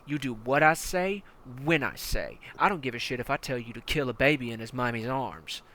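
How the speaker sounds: hard-nosed commander barking orders at a recruit; menacing armored battalion commander; tank commander. Acted. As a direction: lean in like a brutal drill sergeant.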